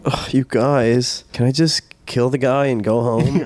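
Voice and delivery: a touch of weary sulking; lightly voiced grumpy gangster, slow start; moody mafioso. Mafioso wanting to go home, mock moody. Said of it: "a moody mafioso who was just like".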